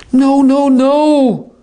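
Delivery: high, loud tutting no; scolding teacher. Acted. Foley chiding the student who broke the beam, high and scolding. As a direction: correct an errant student. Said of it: "as one would to an errant student".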